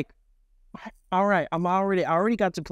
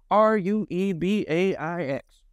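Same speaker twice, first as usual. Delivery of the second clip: spelled out; 4 semitones higher than usual. Retold or imitated. Spells out the man's nickname.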